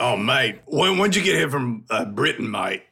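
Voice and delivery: teasing put-on Aussie accent; Australian accent. Host teases co-host as a Briton, mock Australian accent. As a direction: rib him in a rough Australian accent. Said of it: "in Australian accents".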